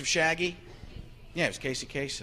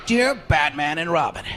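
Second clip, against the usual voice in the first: villain letter voice; 6 semitones higher than usual. Retold or imitated. Riddler letter read grandly.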